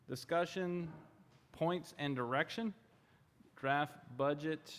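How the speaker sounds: slow, stiff robotic reading. Real, not acted. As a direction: read it out like a robot. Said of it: "sorry, I'm talking like a robot now".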